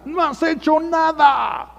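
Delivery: high, loud, slow bellow of an angry husband; mock yell. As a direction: shout it like a husband who comes home furious. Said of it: "su viejo llega y le grita". (grito de marido enojado, agudo y fuerte)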